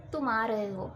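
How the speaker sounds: said easily and gently; relaxed everyday question; calm. Shown as a demonstration. Teacher demonstrating to students, calm and gentle. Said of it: "मैंने बहुत ही आराम से बोला".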